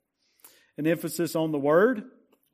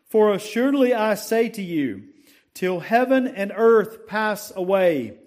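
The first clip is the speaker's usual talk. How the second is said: raised, declaiming verse reading; preached scripture recitation; 2 semitones higher than usual. Acted. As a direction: proclaim the verse to the congregation.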